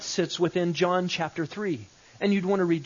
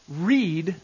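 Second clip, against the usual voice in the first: "read" drawn out and louder; stress on read; 4 dB louder than usual. Shown as a demonstration. Teacher demonstrating emphasis to students, stress on "read". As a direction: hold "read" alone, with weight. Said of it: "read by emphasizing every word".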